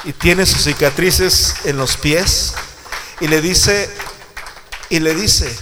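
loud, slow, emphatic sermon delivery; full-voiced pulpit preaching; preaching at full force. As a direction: preach it out to the congregation. Preacher building to climax.

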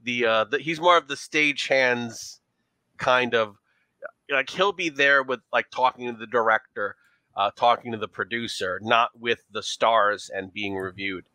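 put-on leaning into a thick New York accent; a New York showgirl playing up her accent. Showgirl answering detectives about her boyfriend, in a New York accent. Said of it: "our New York accent when we lean into it".

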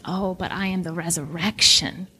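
softly reassuring the weeping sisters; tender. Acted. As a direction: speak softly, as if to grieving sisters. Jesus comforting grieving sisters.

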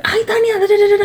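high, mock scolding mom voice; imitating mom. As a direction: play your mom brushing you off. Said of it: "And she's like".

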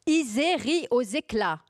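loud, high, slow proclamation; very loud, almost yelling. Acted. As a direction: declaim it out loud, nearly shouting. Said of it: "Je dis très fort, presque en hurlant".

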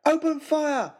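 high, loud battle command; rallying battle cry; shout. Acted. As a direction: bellow the order to attack.

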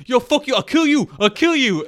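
very high, loud mock fury; retold screaming threats. Retelling long fight between two men, mock screamed threats. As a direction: imitate two men screaming at each other. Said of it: "they're s-, both screaming".

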